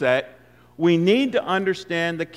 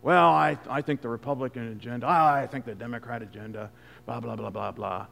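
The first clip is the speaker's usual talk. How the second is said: mock churchgoer chatter; 5 semitones lower than usual. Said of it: "You listen to what people are talking about".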